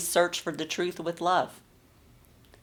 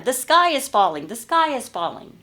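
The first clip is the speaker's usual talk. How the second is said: a frightened chick shouting, louder and higher; panicked shouting; 6 semitones higher, 4 dB louder than usual. Acted. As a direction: cry out in alarm that the sky is falling. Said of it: "Chicken Little shouted again".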